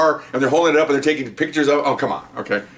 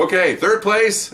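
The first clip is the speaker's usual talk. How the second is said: higher, drawn-out announcement; award announcer; 7 semitones higher, much slower than usual. Retold or imitated. Presenter to the waiting squads at the awards, announcing slowly. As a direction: stretch it out like a prize presenter.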